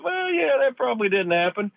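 high-pitched mock concession; Nancy Pelosi. Politician admits it didn't happen, mock high voice. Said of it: "even Nancy Pelosi said".

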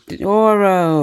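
hype-woman shout of a name; hyped call-out. Pretend. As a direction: raise the name like a crowd chant. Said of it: "Everybody say".

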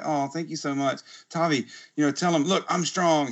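dad showing off son to shopper; proud, bright thanks. Retold or imitated. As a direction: thank her, then prompt the boy proudly. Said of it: "I was like".

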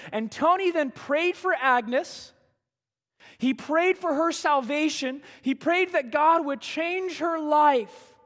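fervent but slightly calmer preaching. Acted. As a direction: drive the story home to the congregation. Preaching the story again.

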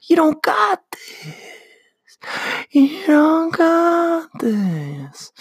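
high, whiny demon dragging out the last taunt. Retold or imitated. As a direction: whine it like a mocking little demon. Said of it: "this little demon starts creeping up".

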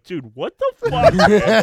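very high, loud, drawn-out exclamation; incredulous protest. Retold or imitated. Kenny reacting to Shaq cutting him off, incredulous. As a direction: imitate someone stunned and affronted.

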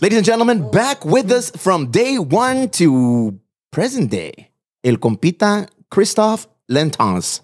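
slow, high, booming ring intro; lucha libre announcer. Acted. Wrestling-style guest introduction.

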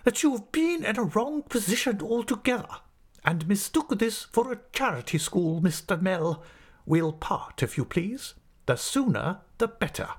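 high-pitched, indignant schoolmaster voice; haughty anger. A narrator's reading. Headmaster parts with his assistant, angrily indignant. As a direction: dismiss him in a high, affronted voice. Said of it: "with his veins swelling again bigger than ever".

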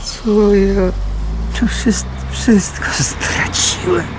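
high, breaking whispered despair; lost everything, voice cracking; broken lament. Acted. Despair after losing all.

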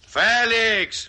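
loud, high call across the room. Acted. Poker player calls roommate away from the kitchen, loud sharp call. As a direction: yell his name to fetch him.

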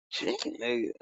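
high, hushed squeak of disbelief; incredulous question. Retold or imitated. Learning Jack's sells chicken nuggets, incredulous question. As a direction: squeak it softly, as if astonished.

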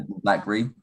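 blackberry said as "BLACK-bree"; swallowed berry. Shown as a demonstration. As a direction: squash blackberry into two syllables, "BLACK-bree". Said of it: "We sort of swallow the word".

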